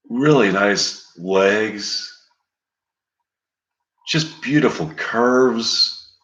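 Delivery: slow, lingering salesman of a fantasy; seductive hypnotist. Retold or imitated. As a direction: draw out each word like a smooth mystic luring you in. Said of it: "he says, like".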